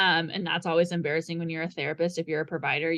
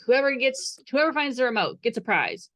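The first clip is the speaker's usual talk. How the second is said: excited call-out; 6 semitones higher than usual. Retold or imitated. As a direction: sell the prize like a game-show host. Aunt calls out to the kids.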